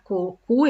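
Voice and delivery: "co, cu" sounded out with a crisp hard K; quick reminder of the syllables "co, cu". Shown as a demonstration. Teacher reminding the class how to make the K sound. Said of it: "não esqueçam que fazer K".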